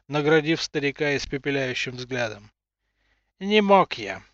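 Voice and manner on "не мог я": put-on high bleating old man. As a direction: whine like a guilty old man. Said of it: "проблеял тот".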